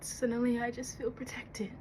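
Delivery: soft, low, halting delivery; soothing yourself in a quiet voice; calming herself. Acted. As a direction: settle into a hushed calm, with long pauses.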